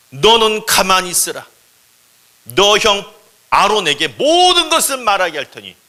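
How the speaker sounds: high, loud, stretched-out decree; commanding God voice. Acted. Preacher quoting God's order to Moses, ringing command. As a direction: proclaim it with authority.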